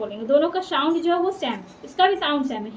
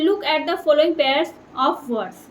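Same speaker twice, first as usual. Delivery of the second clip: slow textbook reading; much slower than usual. Acted. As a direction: read the instruction slowly. Reads textbook instruction.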